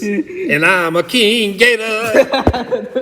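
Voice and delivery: high, slow silly boast; goofy gator voice. Pretend. Child pretending to be a king gator, slow and high. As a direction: stretch it out like a playful king gator.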